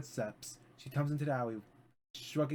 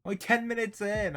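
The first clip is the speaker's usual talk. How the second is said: dismayed disbelief; 8 semitones higher, 3 dB louder than usual. Real, not acted. Dismayed at how little time passed.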